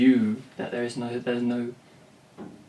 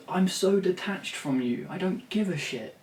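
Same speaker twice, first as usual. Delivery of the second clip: mock lyric; 7 semitones higher than usual. Songwriter mocking a cliché lyric, higher and mock earnest. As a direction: parody a self-pitying songwriter. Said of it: "if you said that in the song".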